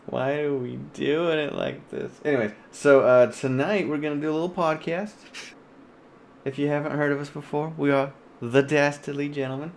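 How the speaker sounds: mock podcast host, hammed up a little; jokey radio host voice opening the show; put-on host voice. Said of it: "I don't know why I'm talking like this".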